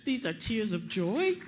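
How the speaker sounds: fighting back happy tears; crying with joy. Real, not acted. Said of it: "I'm sorry, I am going to cry".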